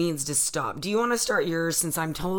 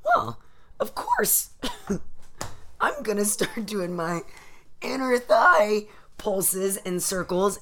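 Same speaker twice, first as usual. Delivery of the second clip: mock gullible thinker; 5 semitones higher, slower than usual. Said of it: "psychological process that happens in our brain that goes".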